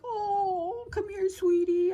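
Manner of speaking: put-on high, drawn-out cooing to a hurt child; baby talk. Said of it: "two ways I talk like that".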